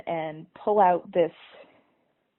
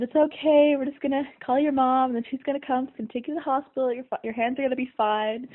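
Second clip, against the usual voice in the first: soothing teacher; 5 semitones higher than usual. Retold or imitated. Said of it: "calmed me down".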